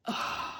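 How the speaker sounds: imitated breathy "ugh"; mock huff of exasperation; exasperated groan. Imitating husband when she corrects him, exasperated groan. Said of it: "he'll just be like".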